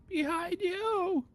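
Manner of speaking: drawn-out, high shout; yelled warning. Acted. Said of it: "yelled out for Jack".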